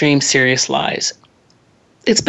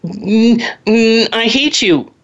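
put-on slightly higher, slow, whiny child's "I hate you"; sulky child; 5 semitones higher, slower than usual. An angry six-year-old to mom, mild whiny child voice. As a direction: grumble it like a cross little kid. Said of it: "They're gonna say".

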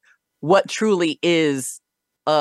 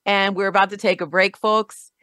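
higher-pitched, upbeat show host voice; radio host sign-off; 5 semitones higher than usual. Real, not acted. Host tells listeners to grab a snack, radio sign-off. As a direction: send listeners off to the break invitingly.

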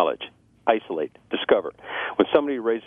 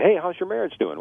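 raised, bright greeting voice; friendly question; 9 semitones higher than usual. Retold or imitated. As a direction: lift the pitch like a cheery acquaintance.

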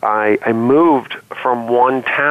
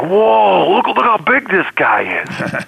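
yelling out; 9 semitones higher, much slower than usual. Retold or imitated. Teammate in the huddle shouting at the tall new kid, amazed yell. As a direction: call out in wonder at the newcomer's size. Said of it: "he just yells out".

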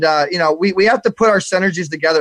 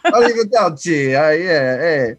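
drawn-out mock-Italian farewell; put-on Italian accent; slower than usual. Shown as a demonstration. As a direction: ham up the Italian accent, slowly. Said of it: "do my best Italian accent".

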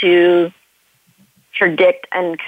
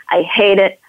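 real tears breaking through the words; crying. Real, not acted. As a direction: sob it out as the anger turns to grief. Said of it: "deeper in your body".

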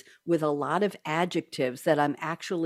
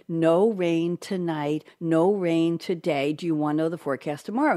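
like a smart speaker answering; Alexa voice. Retold or imitated. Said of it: "She said".

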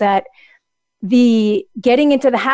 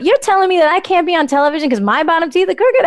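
incredulous retort; 6 semitones higher than usual. Retold or imitated. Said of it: "I said, I said".

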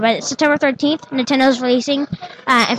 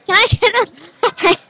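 robot at drive-thru; 3 semitones higher than usual. Retold or imitated. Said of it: "it's like the robot's going to, going through drive-thru".

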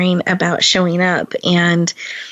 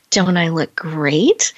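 fishing for a compliment; slower than usual. Retold or imitated. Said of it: "I said".

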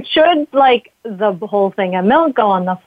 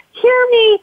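put-on high whiny little-kid plea; needy toddler voice; 14 semitones higher than usual. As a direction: beg like a toddler wanting attention. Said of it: "our feelings as like, like little toddlers that are like".

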